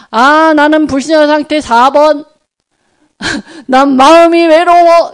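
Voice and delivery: hammed-up confession through a laugh; mock confession, laughing. To the congregation, a silly laughing mock confession. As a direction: pretend to pour your heart out, giggling. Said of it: "이렇게 하는 사람이 어디가 있어?".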